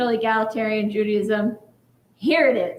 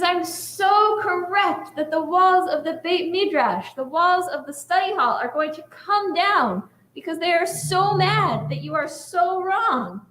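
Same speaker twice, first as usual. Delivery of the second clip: insistent rabbi, building; 6 semitones higher than usual. Retold or imitated. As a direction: stretch it out as the final proof. Lone rabbi's biggest claim.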